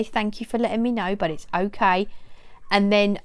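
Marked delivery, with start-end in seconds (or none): 0.0-2.1 calm, even reassurance; mild steady calm. Shown as a demonstration. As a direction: say it calmly to the dog. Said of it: "calmly say".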